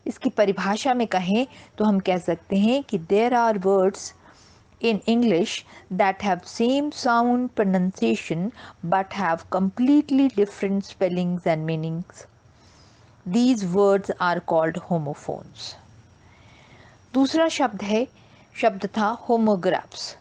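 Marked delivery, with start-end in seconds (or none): 4.8-15.7 very slow, word by word definition; slow deliberate teacher reading; slow dictation. Shown as a demonstration. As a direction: dictate it slowly for notes. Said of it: "teacher dictating definition slowly".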